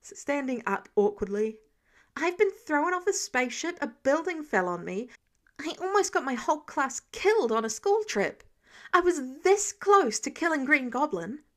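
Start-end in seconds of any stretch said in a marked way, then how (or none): 2.2-11.4 higher, louder heated voice; teen venting his fury; angry rant. Acted. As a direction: unload it all in a furious rush. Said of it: "Peter was too angry to stop now".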